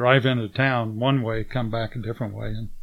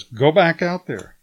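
loud, sharp order from a guard; retold yell; 5 semitones higher, 6 dB louder than usual. Armed guard yelling at the travellers to go back. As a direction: bark it as a curt command. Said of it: "he yells at us".

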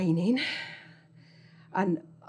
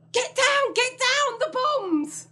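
high urgent war cries; urgent soldier; slower than usual. Pretend. Carer joining the old man's trench game, high and urgent. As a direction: play the soldier, warning of bombs.

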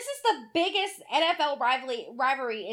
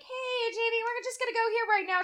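quoting aunt; 8 semitones higher than usual. Retold or imitated. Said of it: "She's gonna be like".

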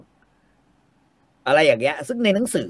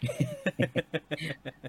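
a soft real laugh that tails off; soft amused laugh; 5 semitones higher, 9 dB quieter than usual. Real, not acted. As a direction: laugh quietly, letting it fall away. Laughs at "too little dark.

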